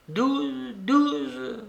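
high-pitched repeated reply; insistent answer. A narrator's reading. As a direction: pitch it up to get through to her. Croupier or narrator answers her.

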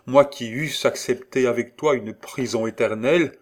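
high, loud, overjoyed outburst; fervent, elated cry of thanks; radiant enthusiasm. A narrator's reading. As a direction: exclaim it with rapture. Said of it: "les yeux rayonnants d'enthousiasme".

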